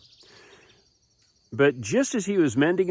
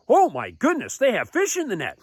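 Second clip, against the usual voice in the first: high-pitched amazed exclamation; astonished; 9 semitones higher than usual. Acted. Fishermen finding fish in the net, acted astonishment.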